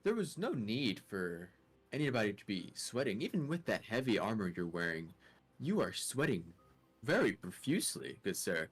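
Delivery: measured, leisurely politeness; player character, courteous. Acted. Player speaks in character to sweating guard.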